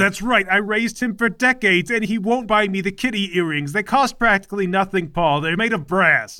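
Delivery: a hint of a bossy, whiny mother; lightly voiced overbearing mom; nagging mother. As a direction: play the domineering mother scolding her son. Mother complains to Galahad.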